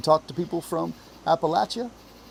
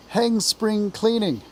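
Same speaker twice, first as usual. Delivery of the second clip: higher, drawn-out cry of defiance; exasperated exclamation; 7 semitones higher, slower than usual. A narrator's reading. Mole giving up on spring cleaning, exasperated cry. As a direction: stretch it out, throwing the chores over.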